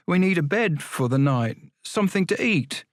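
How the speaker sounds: high, pleading voice; pleading boy. Acted. Boy asking the porter for a bed, pleading. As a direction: ask for shelter, rising high at the end.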